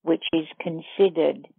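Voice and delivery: measured meditation guide with long pauses; guided meditation. Acted. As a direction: lead listeners step by step, leaving long silences between phrases.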